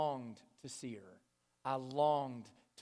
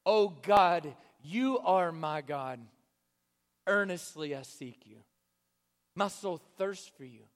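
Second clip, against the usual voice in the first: psalm reading; 3 dB louder than usual. Acted. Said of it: "This is what he says".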